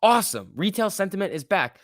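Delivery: loud, hammed-up cheer at the rally; mock excitement. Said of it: "It's like".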